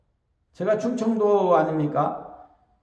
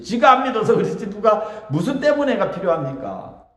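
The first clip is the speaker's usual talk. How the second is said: laughing scoff; 3 semitones higher than usual. Acted. Mocking the complainer in hell.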